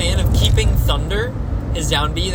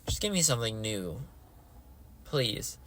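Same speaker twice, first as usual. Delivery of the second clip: much softer, lower plea; quiet pleading; 6 semitones lower, 14 dB quieter than usual. Real, not acted. Fan begging for a fresh next game, hushed low plea. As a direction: beg softly, almost under the breath. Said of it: "I just beg and plead".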